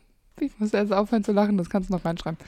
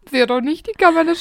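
ordinary delivery

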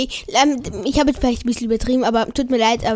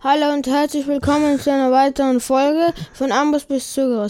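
lightly announced show greeting; podcast intro. Shown as a demonstration. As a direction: open the episode like a host. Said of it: "Eigentlich wollte ich die Begrüßung ja so machen".

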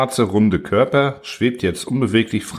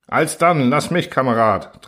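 eager; 5 semitones higher than usual. Acted. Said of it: "drängte sich ein Oberleutnant vor".

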